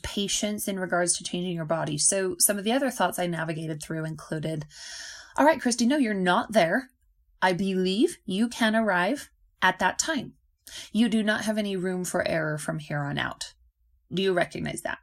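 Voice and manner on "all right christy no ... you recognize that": stern self-talk. Retold or imitated. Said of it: "the conversation I'm having with myself in the mirror".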